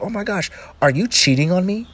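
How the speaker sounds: put-on high, outraged girlfriend voice; shocked girlfriend. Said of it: "And she's like".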